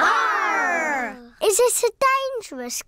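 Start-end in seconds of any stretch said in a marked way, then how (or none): 0.0-1.3 pirate growl. Acted. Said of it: "say "Arr".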